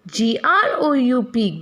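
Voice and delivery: letter by letter, "G R O U P", each letter separate; teacher spelling "G R O U P" letter by letter; spelled out. Shown as a demonstration. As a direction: spell "G R O U P" for the class, one letter at a time.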